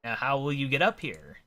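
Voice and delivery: eccentric gent, pondering approvingly; pompous old-fashioned gentleman. Acted. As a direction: weigh an idea like a quaint storybook gentleman. Voices Rupert in game dialogue.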